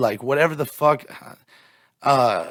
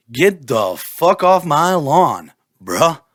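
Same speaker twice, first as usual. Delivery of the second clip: mild mock angry; 6 dB louder, much slower than usual. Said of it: "I'm like".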